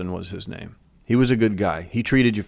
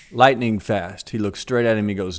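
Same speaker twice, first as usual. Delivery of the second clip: ordinary talk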